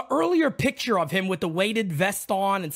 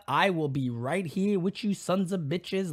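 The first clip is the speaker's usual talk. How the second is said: ordinary talk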